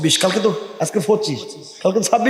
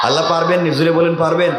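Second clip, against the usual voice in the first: rousing call; faster than usual. Real, not acted. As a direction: urge the crowd to answer back. Urging congregation to answer loudly.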